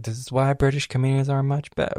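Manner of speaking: put-on American accent. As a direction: quote a friend in an American accent. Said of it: "why am I saying that in an American accent?".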